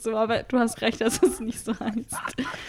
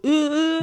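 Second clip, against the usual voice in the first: higher, balky grunts of refusal; sulky child's whine; 5 semitones higher than usual. Acted. Imitating Wes sulking in the back seat, high bratty whine. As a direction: whine like a stubborn kid. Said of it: "Bisschen bockiges Kind auf der Rückbank".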